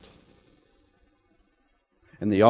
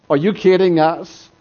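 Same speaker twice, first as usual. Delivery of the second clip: mock jeering yell; 2 semitones higher, 4 dB louder than usual. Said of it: "as he yells".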